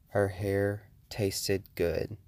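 very slow, drawn-out menace; slow creepy taunt from the intruder; menacing killer. Retold or imitated. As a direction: let each word crawl out, threatening. Killer's last words retold.

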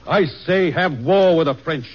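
slow, emphatic call for war; a statesman pressing hard for war, emphatic; forceful demand. Acted. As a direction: lay down the law on war. Hamilton demands war with France.

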